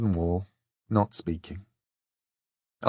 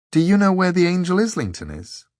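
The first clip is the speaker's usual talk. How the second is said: put-on young girl voice; 9 semitones higher, 4 dB louder than usual. A narrator's reading. Dor voiced.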